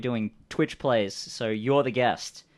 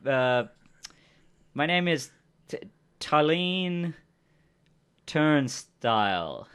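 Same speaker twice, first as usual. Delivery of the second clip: higher-pitched, halting character voice; bluffing stranger; 5 semitones higher, 4 dB louder, slower than usual. Acted. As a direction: stumble through a made-up story. Game master voices improvising stranger.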